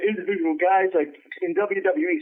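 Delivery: talking through a yawn. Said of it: "sorry, I'm yawning, man".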